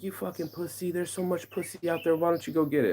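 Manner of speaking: high-pitched mock scolding; imitated goading friend. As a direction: pitch it up to mimic a friend egging you on. Acts out friend goading him.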